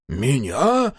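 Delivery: возмущённо переспросить; вспыхнуть от обиды. A narrator's reading. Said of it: "возмутился тот". (Дакука возмущённо переспрашивает погорелицу)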